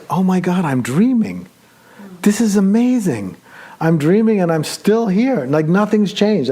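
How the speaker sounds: lightly acted thrill; excited realization. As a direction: burst with amazed joy. Realizing he is dreaming.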